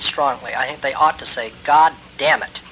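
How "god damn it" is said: God damn it, with GOD stressed and meant; forceful God damn it; said with conviction. Shown as a demonstration. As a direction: say "God damn it" and mean it, hitting God. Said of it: "and mean it".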